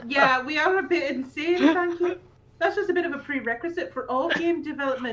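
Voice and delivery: lightly put-on Yorkshire reading voice; Yorkshire accent. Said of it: "I'll do the Yorkshire one".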